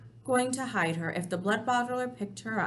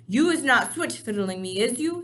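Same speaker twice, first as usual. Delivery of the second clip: suspicious giant; 3 semitones higher, 7 dB louder than usual. Acted.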